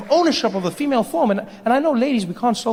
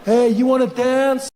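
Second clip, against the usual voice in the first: slow, sleazy come-on; stretched-out creepy pickup voice; creepy guy; slower than usual. Acted. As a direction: hit on her like a creep at a bar. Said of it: "That creepy guy comes up".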